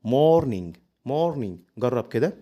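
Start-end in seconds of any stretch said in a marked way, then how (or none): 0.1-0.8 "morning" with no hard g released; silent final g. Shown as a demonstration. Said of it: "حرف الجي مش بيتنطق". 1.1-1.5 "morning" ending in "in", g dropped; silent final g. Shown as a demonstration. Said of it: "حرف الجي مش بيتنطق".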